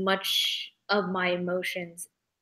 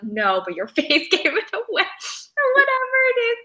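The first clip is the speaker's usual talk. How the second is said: teasing colleague voice; 11 semitones higher than usual. Retold or imitated. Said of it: "They're like".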